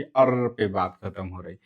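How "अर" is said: अर held on a long r; drawn-out final sound. Shown as a demonstration. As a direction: demonstrate अर by stretching its final r. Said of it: "आप बोल के देखिए".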